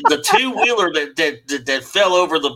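high, hammed-up Southern belle accent; wrong Southern accent. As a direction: put on an exaggerated Southern US accent, halting as you go. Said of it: "probably the wrong Southern accent".

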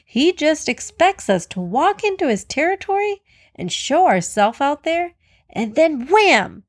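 worked-up, jittery storybook animal; jittery nervous antelope. A narrator's reading. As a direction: fret with rising pitch, nervous antelope. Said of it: "The antelope was jittery and nervous".

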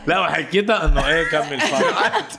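laughing loudly through the words. Retold or imitated. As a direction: laugh it out while telling. Retelling, laughing loud.

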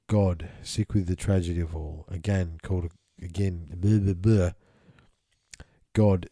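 measured, solemn scripture reading; steady solemn reading aloud; reading a channeled text. Acted. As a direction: intone it like an old sacred text.

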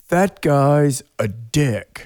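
slow, lightly voiced sea captain; a hint of a grumpy old skipper, drawn out. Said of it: "I'm not a very good sea captain voice".

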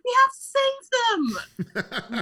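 put-on very high-pitched kids' outcry; imitated urgent plea. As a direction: cry out like campers begging for a rescue. Kids pleading to rescue baby mice.

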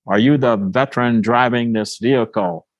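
lightly voiced gruff stranger demanding an answer. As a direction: raise the pitch for a retold gruff challenge. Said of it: "a rather gruff voice".

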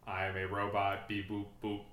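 flat beeping robot talk; toy robot voice. Pretend. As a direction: speak like a toy robot, beep boop. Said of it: "I'm doing it right now".

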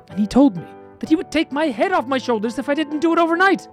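a hammed-up hero close to sobbing; crying despair. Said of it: "why are you crying".

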